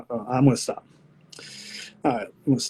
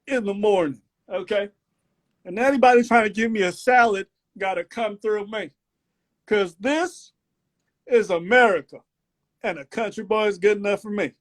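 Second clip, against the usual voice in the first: put-on Southern country accent; 6 semitones higher than usual. Country boy lays down his rules, thick Southern accent. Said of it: "I actually enjoy this accent".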